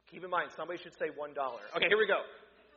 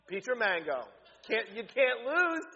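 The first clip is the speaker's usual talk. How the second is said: usual speaking voice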